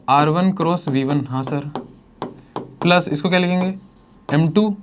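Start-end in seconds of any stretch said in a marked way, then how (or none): 0.1-1.3 slow, each term set apart for notes; teacher spells the formula out slowly so students recall; slow dictation. Shown as a demonstration. Teacher to class, slow dictation for recall. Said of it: "याद करो".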